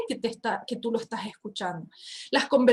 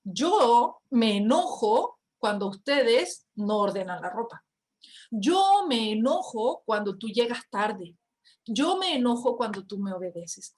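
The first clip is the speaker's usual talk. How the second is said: calm I-statement. Shown as a demonstration. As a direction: own the feeling calmly, no blame. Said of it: "En vez de decir".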